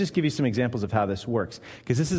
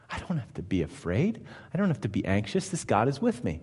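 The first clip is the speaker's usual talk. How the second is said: soft relief; 4 semitones lower, 6 dB quieter than usual. Pretend. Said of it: "if you consume those gracious promises".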